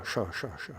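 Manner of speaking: "sha" said with a clear sh sound, repeated; Bengali sha. Shown as a demonstration. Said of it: "They say the S like sha".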